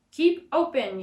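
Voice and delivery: high, loud command; yelled. A narrator's reading. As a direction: yell it into the fox's mouth. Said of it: "yelled Doctor DeSoto".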